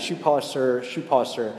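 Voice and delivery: put-on a light street call of a shoeshine boy, level; casual mock street cry, not pushed. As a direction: call it out, no effort behind it. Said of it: "he's doing that".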